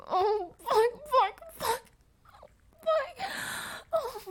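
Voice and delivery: breathy cries climbing to a peak; climax cries. Acted. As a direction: let it peak in rising cries. Climax building.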